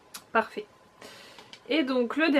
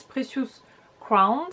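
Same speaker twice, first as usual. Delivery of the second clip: English words in a rough French accent; bad English accent; much slower than usual. Real, not acted. Vlogger reading a palette name, shaky French-accented English. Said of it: "mon accent anglais est un petit peu pourri".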